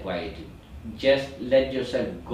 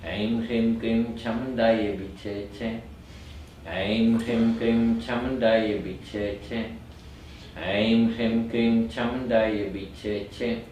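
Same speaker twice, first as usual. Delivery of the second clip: measured chant, lower than talking; steady, slightly slower mantra recitation; slower mantra rhythm; 3 semitones lower than usual. Shown as a demonstration. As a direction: recite the mantra unhurriedly, syllable by syllable. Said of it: "a little bit more slowly".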